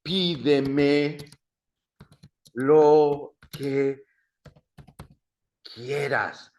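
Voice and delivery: loud, drawn-out words with long pauses; word-by-word modelling. Shown as a demonstration. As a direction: spell out the phrase one word at a time.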